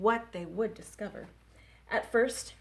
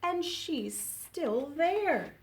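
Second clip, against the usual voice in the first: higher little bear cry; Baby Bear cries; 5 semitones higher than usual. Acted. Librarian reading to kids, Baby Bear higher. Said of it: "cried Baby Bear".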